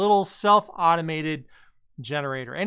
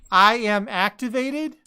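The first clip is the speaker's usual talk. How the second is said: slow theatrical villain menace; 3 semitones higher, slower than usual. Acted. Voicing the question machine.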